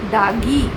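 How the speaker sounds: "दागी" with g in place of the second d; toddler's mispronunciation. Retold or imitated. Mother showing how her child says grandma, toddler mispronunciation. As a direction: say "दागी", a child's slip for दादी. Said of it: "अभी दादी proper नहीं बोलता है".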